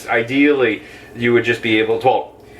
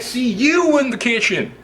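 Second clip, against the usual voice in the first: high, bright-pitched call of see you in the kitchen; high sing-song call; 10 semitones higher than usual. Shown as a demonstration. Cheerful host calling viewers into the kitchen, high sing-song. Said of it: "I said".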